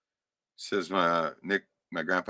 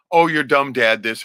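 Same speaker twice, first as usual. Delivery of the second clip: raised, slow sneering jab; slowed, higher mock put-down; mock insult; 8 semitones higher, 9 dB louder, slower than usual. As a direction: spit it out like a bickering parent. Parents insulting each other, mocked.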